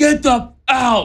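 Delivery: all-out acted scream, very high and shrill. Retelling cheering at a home run on the couch: imitating own screaming. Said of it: "I'm just screaming".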